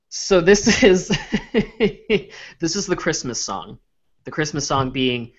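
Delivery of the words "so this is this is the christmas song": laughing. Real, not acted. Laughing while introducing the song.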